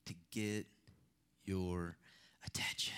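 voiceless whispered last word. Real, not acted. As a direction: drop to a whisper to land the point. Preacher drops to a whisper for effect.

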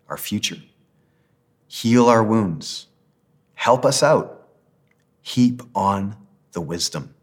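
measured prayer in short phrases, long pauses between; slow prayer reading. Real, not acted. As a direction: read the prayer slowly, pausing so others can follow. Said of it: "I'll read it slowly".

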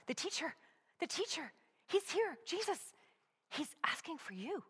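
high, urgent, tumbling out the news; breathless urgent news. Acted. Martha rushes in, eyes wild.

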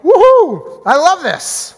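high, loud whooping glee; gleeful cheer. Retold or imitated. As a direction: cheer for the coming punishment. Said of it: "He's like".

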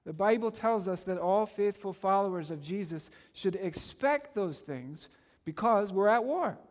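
ordinary talk, nothing marked

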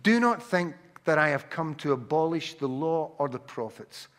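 ordinary delivery

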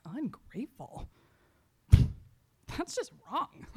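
slow, laughing disbelief; incredulous and half laughing; offended disbelief. Retold or imitated. Retelling her offended reaction.

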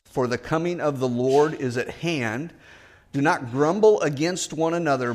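measured, solemn Bible reading; steady pulpit reading voice; scripture reading. Acted. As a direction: read the passage with reverence. Scripture reading before the sermon.

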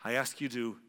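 measured prayer in short phrases with pauses; slow led prayer. Shown as a demonstration. Preacher leading the congregation in a prayer of faith, slow and measured. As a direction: pray it unhurried, pausing for others to follow. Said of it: "I'll say 'em slowly".

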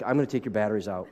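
mock exasperated parent. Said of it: "you're like".

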